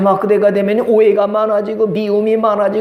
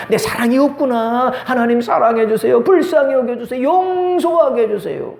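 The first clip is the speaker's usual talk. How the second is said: pleading prayer; 4 semitones higher than usual. Acted. Preacher modelling prayer for love to forgive, pleading. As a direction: plead upward, stretching the final words.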